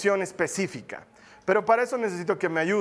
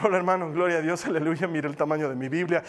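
quick, composed church greeting after the squabble; feigned piety; 3 semitones lower than usual. Acted. Churchgoer greeting a brother while hiding a fight, falsely composed. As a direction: cover the fight with a hurried pious hello. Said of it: "Tratamos de disimular".

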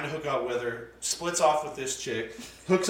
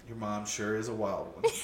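imitated musing dad; 5 semitones lower, 6 dB quieter than usual. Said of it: "he pauses, and he's like".

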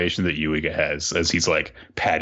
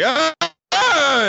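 flustered yelp; 5 dB louder than usual. Retold or imitated. Yuiga flustered by the kiss.

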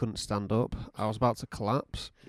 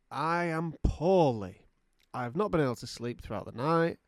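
mock poorly patient; 2 semitones higher than usual. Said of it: "in bed at six A M going".

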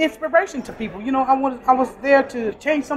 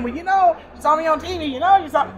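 higher-pitched imitation of bragging; mock boasting; 5 semitones higher than usual. Worker mimicking the TV bragging she avoids, mock boasting. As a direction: play a mild show-off.

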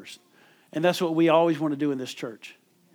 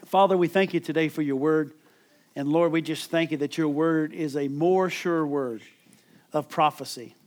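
closing prayer. Acted. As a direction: pray over the church, gently fading out. Closing prayer over music.

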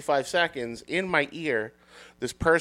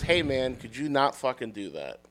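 toned-down retelling; 8 dB quieter than usual. Retold or imitated. Admitting what was actually said to the barker, understated. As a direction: let it drop away, understated. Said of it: "what I actually said was".

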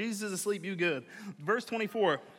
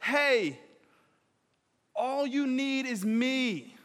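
tender slow; much slower than usual. Shown as a demonstration. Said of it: "he uses it as a moment".

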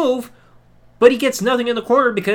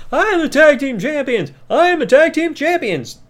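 loud, higher put-on bellow at the crowd; mock boast; 7 semitones higher, 4 dB louder than usual. Kane posing in the corner, booming mock boast. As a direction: brag it to the whole arena. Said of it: "posing the crowd saying".

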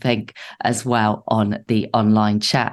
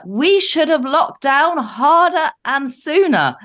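quoting official; 13 semitones higher, slower than usual. Retold or imitated. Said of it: "he says".

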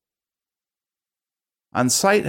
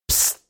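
loud hiss. A narrator's reading. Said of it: "she hissed too loudly".

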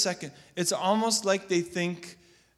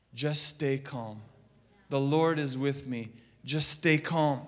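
quiet self-reminder; 4 semitones lower than usual. Shown as a demonstration. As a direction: talk yourself down gently. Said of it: "you gotta remind yourself".

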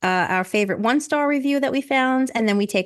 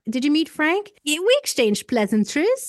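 snooty; 5 semitones higher than usual. Retold or imitated.

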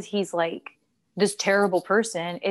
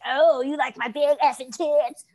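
higher, louder mock flirt; mock flirty voice; 5 semitones higher, 4 dB louder than usual. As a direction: toss it off as a cheesy tease. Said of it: "just because I won't be like".

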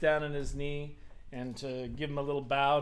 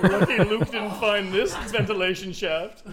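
laughing mock quote; 3 semitones higher, 6 dB louder, slower than usual. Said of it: "He's like".

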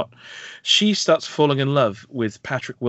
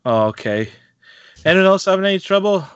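lightly voiced counsellor, breezy and higher; mock counsellor; 6 semitones higher, 6 dB louder than usual. Counsellor asking the group, lightly imitated. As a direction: breezily brush off the patient.

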